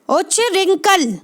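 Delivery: उच्च रिंकल as two measured pieces, उच्छ then रिंखल; careful correct pronunciation. Shown as a demonstration. Teacher presenting the word to students, carefully split pronunciation. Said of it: "ये है शब्द".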